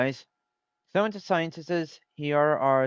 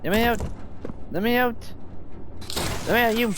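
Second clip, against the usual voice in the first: desperate shout; 8 semitones higher, faster than usual. Acted. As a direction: yell it like you're locked in. Trapped, pounding to get out.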